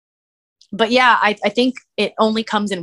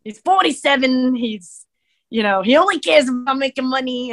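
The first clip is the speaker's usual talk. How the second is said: riffing Brooklyn voice; 5 semitones higher than usual. Pretend. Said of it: "start talking like this dude".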